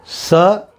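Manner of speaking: स hissed with the tongue at the teeth; a crisp dental स; स isolated for teaching. Shown as a demonstration. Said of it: "ये दांत के से निकलती है".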